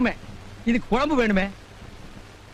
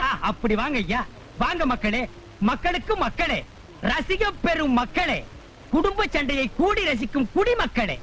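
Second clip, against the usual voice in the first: street showman call. Acted. Addresses gathered crowd like showman.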